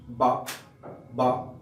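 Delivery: বা with a strong voiced burst; sound demo. Shown as a demonstration. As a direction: pop the বা out with force. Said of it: "বি এর sound সিস্টেমটা হচ্ছে". (জোর দিয়ে বা উচ্চারণ)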